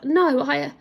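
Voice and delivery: stuttering queen. A narrator's reading. Queen cornered by the Lord Protector, stuttering. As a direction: stumble over the words. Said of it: "the lady stuttered".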